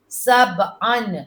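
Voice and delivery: سبعن said very slowly, the ب bounced with an echo; سبعن drawn out to show qalqala; qalqala demo. Shown as a demonstration. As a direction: stretch سبعن and let the ب rebound. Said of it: "با پہ جزم آئے تو فوراً قلقلہ بن جاتا ہے".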